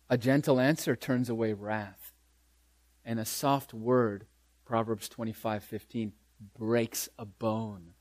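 low, soft, slowing recitation; gentle. Acted. Preacher quotes Proverbs on a soft word, hushed and low.

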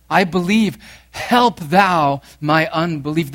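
loud cry of faith. Acted. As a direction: call it out as the cry of every struggling believer. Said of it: "This is the cry of the faithful".

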